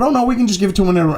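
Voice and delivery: fast, breezy mock of the other side; sarcastic quick brush-off; mocking dismissive voice. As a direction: rattle it off like it's no big deal.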